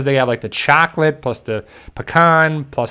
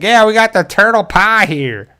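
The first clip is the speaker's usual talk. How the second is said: higher voice, lightly hammed-up proud host; hammed-up host offering the pie; a host proudly serving turtle pie; mock proud host; 7 semitones higher than usual.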